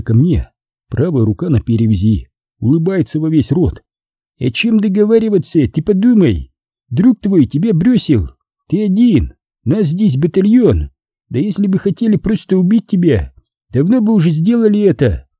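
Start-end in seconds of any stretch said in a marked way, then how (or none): 4.4-15.3 high-pitched, insistent character voice; raised, cajoling negotiator's voice; confident opponent persuading. A narrator's reading. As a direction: reason with a cornered man, pressing each point. Narrator voices Abay persuading fugitive.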